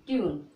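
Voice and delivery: "ट्यून" with a yu glide, falling low; one syllable "ट्यून", final e silent; model pronunciation. Shown as a demonstration. Teacher models the next word, model pronunciation "ट्यून". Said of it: "इसी प्रकार इसको पढ़ोगे".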